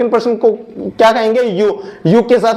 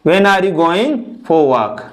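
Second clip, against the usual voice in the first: slow dictation; 3 semitones lower, much slower than usual. Shown as a demonstration.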